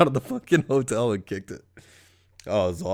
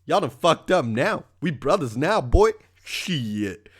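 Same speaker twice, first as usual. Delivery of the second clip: put-on drunk bro voice; 4 semitones higher than usual. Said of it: "This guy's like".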